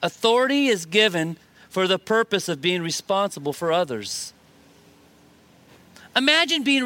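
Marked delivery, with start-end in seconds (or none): 0.0-4.3 measured repeat for note-takers; slow it down a little, pausing after "given"; deliberate, dictation-like delivery; said slower. Shown as a demonstration. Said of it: "I'll say it slower".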